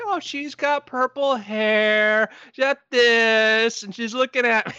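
put-on high, slow, certain little-girl voice; child's utter conviction. Niece describing her invisible friend to adults, utterly convinced. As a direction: draw each word out high, totally sure of it. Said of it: "it's just the utter conviction".

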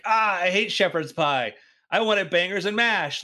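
lightly voiced let-down sailor; mock disappointment. British sailor complaining about his dinner, mock disappointment.

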